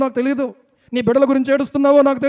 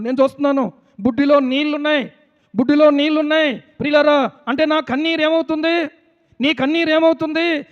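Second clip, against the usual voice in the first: insistent pulpit voice, slightly raised; fervent preaching; 4 semitones higher than usual. Real, not acted. Preacher telling listeners who think God ignores their tears, fervent preaching. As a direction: press each phrase on the congregation.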